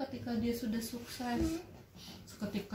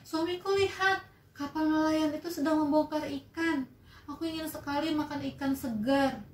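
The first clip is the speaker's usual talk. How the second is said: raised voice of the wife calling to her husband; 6 semitones higher than usual. Acted. Wife calling to her husband from the ship, raised. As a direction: call out to him, pitched up.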